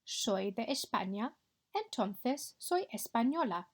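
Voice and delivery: clear, careful Spanish for the class to copy; model Spanish pronunciation. Shown as a demonstration. Teacher modelling a Spanish line for pupils to repeat, clear and careful. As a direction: say each sound so pupils can echo it. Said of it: "echo my pronunciation".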